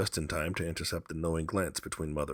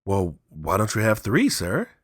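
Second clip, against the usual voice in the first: cheeky; 5 semitones higher, 9 dB louder than usual. Acted. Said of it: "said Herbert White cleverly".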